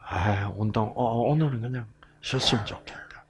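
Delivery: fast, soft whispered grumble; thinking aloud about skipping exercise, whispered. Shown as a demonstration. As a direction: mutter it to yourself, whispered. Lazy thought before exercise.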